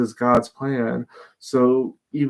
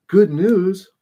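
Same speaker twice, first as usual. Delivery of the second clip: "Good news?" thrown back higher and louder in disgust; outraged disbelief; 7 semitones higher, 6 dB louder than usual. Retold or imitated. Furious David hurling the messenger's words back in outrage. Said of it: "He is mad".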